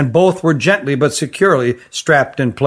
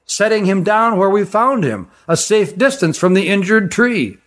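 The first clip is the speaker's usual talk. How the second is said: steady, higher-pitched storyteller stranger; a composed forest ranger recounting; calm stranger's voice; 4 semitones higher than usual. Acted. Issar continues account.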